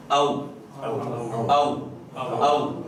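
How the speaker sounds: isolated "او", a gliding into rounded waw; waw with sukun. Shown as a demonstration. Teacher drilling vowelless waw after zabar, careful articulation. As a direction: say "او" as one syllable ending on rounded lips. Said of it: "اس کو ساکن کر کے".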